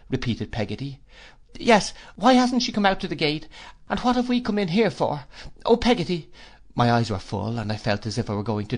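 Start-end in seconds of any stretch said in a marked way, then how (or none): 1.6-6.3 put-on high, pleading small-boy voice; distressed child. A narrator's reading. Boy begging his nurse to explain, distressed. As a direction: plead in alarm, pitched well up.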